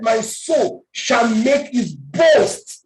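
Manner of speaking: drawn out, slow and emphatic; slow preached verse. Acted. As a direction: preach it word by word, slowly. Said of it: "preacher reciting verse slowly".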